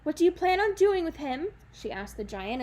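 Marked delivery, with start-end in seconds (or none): 0.0-1.5 matter-of-fact. Acted. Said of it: "as if ... ordinary person".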